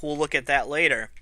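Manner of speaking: ordinary talk, nothing marked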